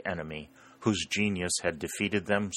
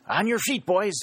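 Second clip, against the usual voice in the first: much higher, louder rallying cry; excited exclamation; 13 semitones higher, 4 dB louder than usual. A narrator's reading. Happy Tom rousing his friends as Jackson approaches, excited cry. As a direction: jolt the boys to their feet. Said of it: "exclaimed Happy Tom".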